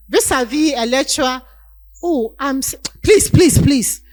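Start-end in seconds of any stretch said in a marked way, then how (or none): 2.0-4.0 high, loud mock begging of a desperate student; pleading student. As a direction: beg the lecturer, half in jest.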